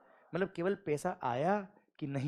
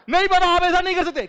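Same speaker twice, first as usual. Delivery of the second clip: much higher and louder, outraged plea; indignant protest; 13 semitones higher, 7 dB louder, faster than usual. Retold or imitated. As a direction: cry out that it's unfair. Son protesting papa's refusal again. (नाराज़गी भरा ऊँचा विरोध)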